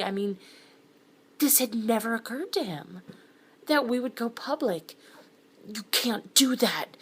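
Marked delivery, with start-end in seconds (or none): 5.7-7.0 high and loud, slow: "You can't do that"; almost yelling it at her, held back; a pushed, strained near-shout. Acted. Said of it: "he almost yelled".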